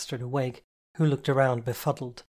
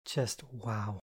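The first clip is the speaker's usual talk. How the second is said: mock sarcasm; 2 semitones lower, 7 dB quieter than usual. A narrator's reading. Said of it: "I mocked sarcasm".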